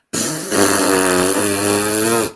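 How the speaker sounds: lips blown loose like a horse; lip trill. Shown as a demonstration. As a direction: blow air through loose lips. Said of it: "this is what this one looks like".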